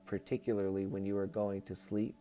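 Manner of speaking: even, measured reading voice; book read-aloud. Acted. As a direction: read it out as a solemn channeled message. Reads channeled book aloud.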